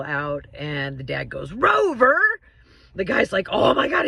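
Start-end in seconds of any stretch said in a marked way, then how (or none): 1.5-2.2 dad calling the dog sharply, voice jumping higher. Retold or imitated. 3.5-4.0 excited. Retold or imitated. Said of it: "he's trying to get all excited".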